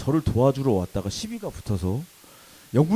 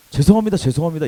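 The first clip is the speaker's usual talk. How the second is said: louder, slightly higher mock apology; acted loud plea for pardon; 5 semitones higher, 9 dB louder, faster than usual. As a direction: blurt a pretend apology to attackers. Imagined plea to attackers.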